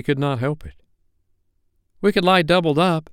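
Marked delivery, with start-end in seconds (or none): 2.0-3.1 put-on high-pitched little boy's offer; eager boy. A narrator's reading. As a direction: pipe up high as a helpful lad. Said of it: "said Nibs".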